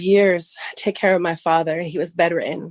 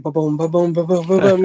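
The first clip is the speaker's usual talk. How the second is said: heartbeat imitation; 5 dB louder than usual. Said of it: "my heart is like".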